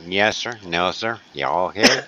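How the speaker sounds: fake American accent. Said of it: "that's what you think we talk like".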